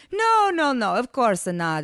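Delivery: lilting, placating reassurance; sugary accented agreement; sweet murmur. A narrator's reading. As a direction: soothe her sweetly. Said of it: "Ivan murmured sweetly".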